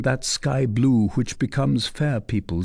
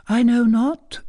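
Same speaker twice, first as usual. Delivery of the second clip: put-on a higher, teasing young lady's voice; coy young lady; 13 semitones higher, 4 dB louder than usual. A narrator's reading. Young lady teasing the captain, coy and higher. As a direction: play the coy cousin pressing her question. Fleur de Lis voiced high.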